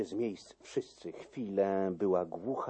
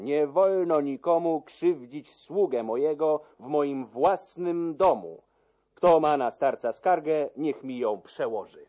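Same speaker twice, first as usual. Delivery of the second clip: higher, much louder protective defiance; defiant shout; 7 semitones higher, 7 dB louder than usual. Acted. Count defending his old servant, loud defiant shout. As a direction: defend your servant fiercely. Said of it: "zawołał".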